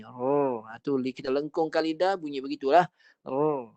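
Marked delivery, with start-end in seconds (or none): 0.0-0.5 Rrr with the tongue curled back. Shown as a demonstration. Teacher showing the curled ra sound. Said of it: "Bunyi melencong macam mana? Macam ni".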